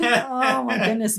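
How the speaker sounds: breaking into real laughter as she says it; laughing. Real, not acted. Reacting to her friend's jab, real laughter.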